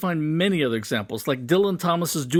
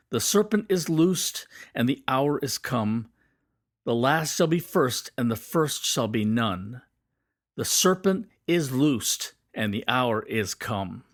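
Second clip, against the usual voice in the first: slow, measured recital of a verse; poem reading; 2 semitones lower than usual. Acted. Teacher reading a poem's verse aloud to viewers, slow measured recital. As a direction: recite the stanza slowly, leaning on serpent and hour.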